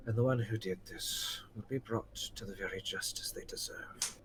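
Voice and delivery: put-on soft, steady comfort to a frightened child; gentle reassurance. Gorthrak comforting the rescued halfling, soft and gentle. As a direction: soothe them quietly, promising safety. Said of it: "Gorthrak just gently holds them and goes".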